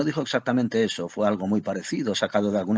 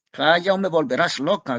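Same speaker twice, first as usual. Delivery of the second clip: higher, louder exasperated cry; shouting; 7 semitones higher, 5 dB louder than usual. A narrator's reading. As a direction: yell at him to shut up. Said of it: "gritó ella". (grito exasperado, más agudo y fuerte)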